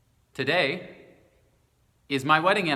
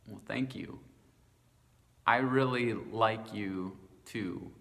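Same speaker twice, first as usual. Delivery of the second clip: awkward mumble; 5 semitones lower, 5 dB quieter than usual. Retold or imitated. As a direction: mumble it, embarrassed. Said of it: "I mumbled".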